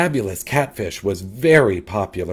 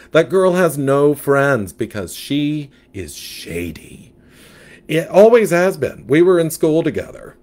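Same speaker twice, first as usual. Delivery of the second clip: louder, sassy gossip; sassy catfish; 5 semitones higher, 4 dB louder than usual. Acted. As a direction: diva fish with attitude.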